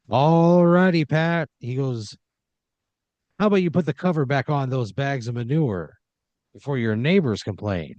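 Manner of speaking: jokey host teasing the contestant; game show host. Acted.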